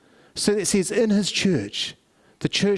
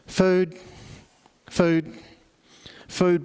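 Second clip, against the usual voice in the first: helpless begging; much slower than usual. Retold or imitated. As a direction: mutter the plea like a blind man begging. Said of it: "sits there helplessly begging for foods".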